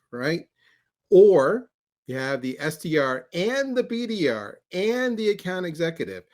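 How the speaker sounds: slow list with pauses between options; measured, spelled-out recap on request; slow, deliberate repeat. Shown as a demonstration. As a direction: lay out each option deliberately, leaning on the joining words. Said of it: "Say the four choices again slowly".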